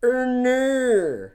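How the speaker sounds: high, loud mock-Australian cry; exaggerated Australian wail; Australian accent. Shown as a demonstration. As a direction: overdo the Australian vowels in "no". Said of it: "That's my Australian accent".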